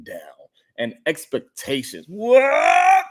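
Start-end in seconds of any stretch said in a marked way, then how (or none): 2.1-3.0 high shocked what; surprised. Real, not acted. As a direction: squeal it in disbelief. Shocked reaction to topic.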